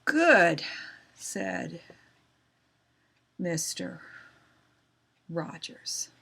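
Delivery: painfully slow, one word at a time; reading too slow. Shown as a demonstration. Teacher shows pupils boring reading, far too slow. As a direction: leave long dead gaps after every word. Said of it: "You can read too slow".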